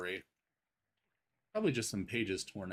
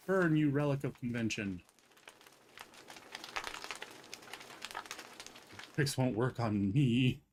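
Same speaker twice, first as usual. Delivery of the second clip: dramatic villain; 4 semitones higher than usual. Pretend. Dramatic defiance.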